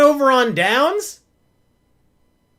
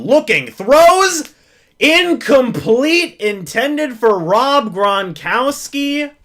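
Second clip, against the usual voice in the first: excited play call; 4 semitones higher, 3 dB louder, slower than usual. Real, not acted. Live play call, pass thrown.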